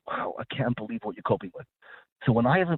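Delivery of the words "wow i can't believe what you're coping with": warm admiration. Retold or imitated. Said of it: "A leader looks at you and says".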